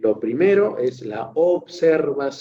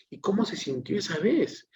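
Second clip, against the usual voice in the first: higher, softer inviting question to a patient; gentle caring question; 7 semitones higher, 4 dB quieter than usual. Shown as a demonstration. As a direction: ask it gently, as if you want to hear the answer. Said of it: "del tono de voz que estoy utilizando".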